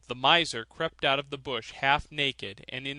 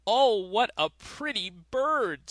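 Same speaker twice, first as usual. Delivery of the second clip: put-on higher, slow admiring old miser; 7 semitones higher, 4 dB louder, slower than usual. A narrator's reading. Miser admiring the thrush in a higher old voice. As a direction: coo over the bird as a greedy old man.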